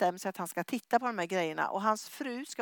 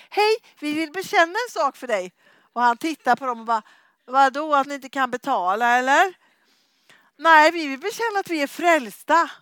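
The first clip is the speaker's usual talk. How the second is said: louder, higher, bursting to tell; eager loud announcement; 4 semitones higher, 11 dB louder than usual. Retold or imitated. Couple announce their salvation to the plumber, loud and eager. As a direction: call it out proudly.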